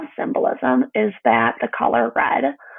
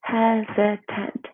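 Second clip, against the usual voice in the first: slow, syllable by syllable; clapped syllables; 3 dB quieter, much slower than usual. Shown as a demonstration. Teacher claps out Hesitant with the class, slow beats. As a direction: chunk Hesitant into three beats, slowly. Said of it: "Clap it out".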